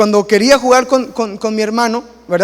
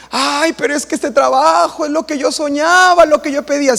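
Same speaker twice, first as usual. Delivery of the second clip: a higher, lovesick voice for the churchgoer; dreamy excuse; 6 semitones higher than usual. Acted. Churchgoer defends the new job to the pastor, gushing. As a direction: gush over the dream job as if justifying it.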